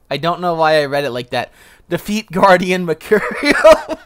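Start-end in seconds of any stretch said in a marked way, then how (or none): 1.9-4.0 slow, louder, higher epic announcement; dramatic quest title. Pretend. Gamer reading a quest name in mock epic voice.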